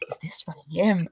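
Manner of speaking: imitating a furtive, whispered question; half-whispered aside; hushed question. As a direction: ask it under your breath, as if checking secretly. Furtive question acted while pointing.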